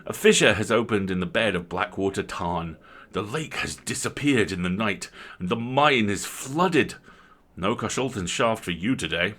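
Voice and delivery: wry country squire, ringing out; host breaks bad news to his guest wryly; rueful host with news.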